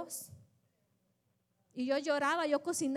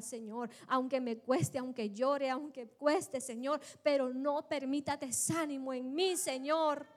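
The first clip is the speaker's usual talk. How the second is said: earnest prayer. Acted. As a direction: start subdued, then plead more insistently with the Lord. Models a prayer to God.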